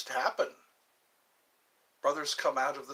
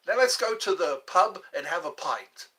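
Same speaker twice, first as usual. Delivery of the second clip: mock British accent; 3 semitones higher, 5 dB louder than usual. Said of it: "that accent".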